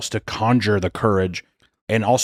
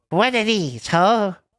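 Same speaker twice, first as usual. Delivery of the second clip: very high put-on voice, stretched out; 12 semitones higher than usual. Trying out a take of a line for the camera, in a high-pitched voice. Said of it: "what if I did kind of high pitch".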